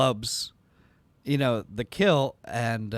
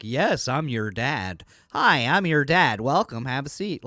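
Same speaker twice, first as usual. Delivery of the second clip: odd accent impression; slower than usual. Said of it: "sounds like an alien impersonating it".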